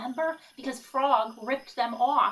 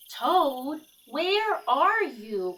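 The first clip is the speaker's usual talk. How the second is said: calling out; 4 semitones higher, 3 dB louder, much slower than usual. Acted. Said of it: "called Frog".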